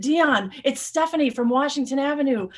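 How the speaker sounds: a friend anxiously calling the hurt mailman; urgent phone greeting. Retold or imitated. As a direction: reach him fast, worried and keyed up. Frantically calling injured mailman.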